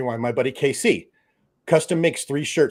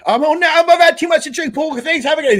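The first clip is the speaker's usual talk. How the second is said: higher, louder mock English drunk, slurring goodnight; drunk English impression; 6 dB louder than usual. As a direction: ham up a tipsy Englishman saying he's off to bed. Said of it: "what do the English call it? Knackered".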